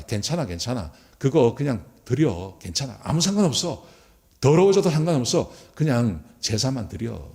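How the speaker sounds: mock offhand reassurance with lifts in pitch; casually dismissive. Priest telling another to just offer it, acted dismissive. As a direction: wave the worry away, lightly acted. Priests brushing aside a worry.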